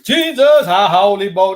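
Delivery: mock happy clapper. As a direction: ham up the happy-clapping worshippers. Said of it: "where they do all the happy clapping".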